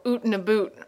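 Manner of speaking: stereotyped Canadian "oot" and "boot" vowels; mock Canadian accent. Canadian mocking how people think Canadians talk, mock Canadian accent. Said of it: "think of a Canadian thing to say".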